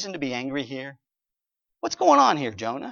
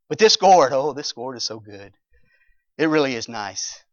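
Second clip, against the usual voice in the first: content sigh; 3 semitones lower than usual. Retold or imitated. Jonah savouring his shade.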